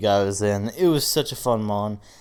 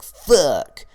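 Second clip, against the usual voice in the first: loud exasperated curse; frustrated shout; 4 semitones higher, 8 dB louder than usual. Retold or imitated. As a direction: blurt it out in frustration. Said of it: "So I was like".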